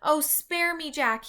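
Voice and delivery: high, loud pleading yell. A narrator's reading. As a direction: beg Jack for mercy. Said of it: "he yelled".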